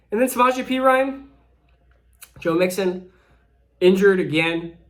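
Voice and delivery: winded, breathing hard between words. Real, not acted. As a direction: talk while catching your breath. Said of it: "out of breath just talking".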